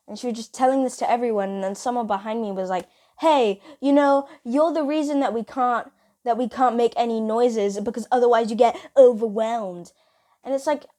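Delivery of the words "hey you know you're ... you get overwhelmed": mildly raised mimic of an accuser; blaming classmate. Classmate behind blaming her, mild mock accusation. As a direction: lightly act out a classmate's complaint.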